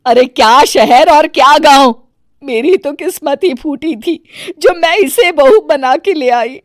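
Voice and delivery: heated, fed-up rant at the daughter-in-law; furious. Acted. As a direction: vent your rage at your bad luck. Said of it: "Gayatri आग बबूला हो जाती है". (गुस्से से भरी हुई शिकायत)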